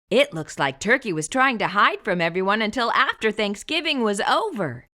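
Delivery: put-on chatty aside to young listeners; friendly read-aloud aside; reading to children. Shown as a demonstration. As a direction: talk straight to the kids.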